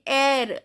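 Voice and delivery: "air" with a sounded r; "air" as a careful pronunciation model; pronounced final R. Shown as a demonstration. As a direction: say "air" ending on a clear R. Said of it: "R is pronounced".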